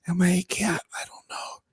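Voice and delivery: soft, whispered aside voice; Gaffigan inner voice. Pretend. Comic doing Jim Gaffigan's whispered alter voice, soft. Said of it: "Jim Gaffigan alter voice".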